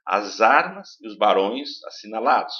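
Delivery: verse read stressing the open vowels; stressed vowels. Shown as a demonstration. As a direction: lean on armas and barões. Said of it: "fecha, e depois abre".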